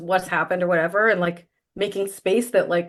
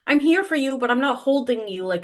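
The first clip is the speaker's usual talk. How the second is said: tender reassurance; 4 semitones higher than usual. Retold or imitated. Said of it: "she's saying".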